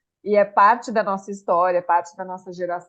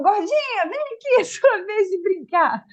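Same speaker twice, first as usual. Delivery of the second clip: TV host voice; 11 semitones higher than usual. Retold or imitated. Quotes Xuxa on her show.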